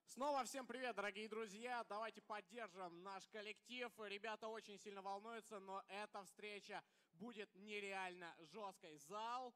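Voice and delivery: loud, high hype to the hall; hype shout. Real, not acted. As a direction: pump up the crowd, shouting. Caster hypes the crowd.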